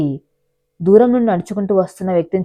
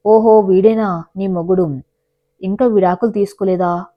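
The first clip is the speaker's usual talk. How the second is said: sarcastic taunt. Acted. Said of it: "అని వెటకారం చేశాడు".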